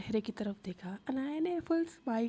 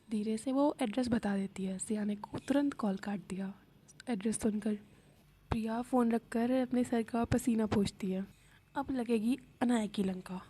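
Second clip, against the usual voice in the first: usual speaking voice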